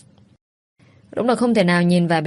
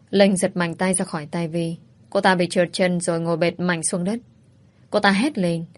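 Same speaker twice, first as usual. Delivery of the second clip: usual speaking voice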